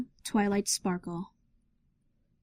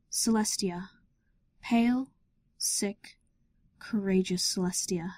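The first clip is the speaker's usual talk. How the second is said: whispered. A narrator's reading. Narrator describing sick Celestia, whispering tenderly. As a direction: hush each word like a secret.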